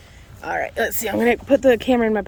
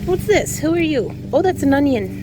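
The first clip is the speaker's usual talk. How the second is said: high surprised question; suddenly surprised, then amused; 6 semitones higher, 4 dB louder than usual. Real, not acted. Surprised at a plant.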